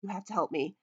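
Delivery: frantic, stumbling pleas, words tripping over each other; a nervous little sheep begging for help; anxious sheep. Acted. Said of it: "glances around anxiously".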